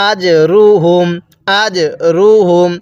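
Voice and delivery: আজরুহুম with the জ pushed out in a bounce; bounced jim. Shown as a demonstration. Teacher shows the bounced জ in আজরুহুম. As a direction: give the জ in আজরুহুম a qalqala bounce. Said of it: "জিমটা ধাক্কা দিয়ে পড়তে হবে".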